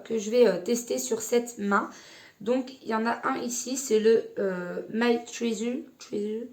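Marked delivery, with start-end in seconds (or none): 4.9-6.5 English name said with a French accent; unsure attempt at English, French accent. Real, not acted. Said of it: "Vous remarquerez mon très bel accent".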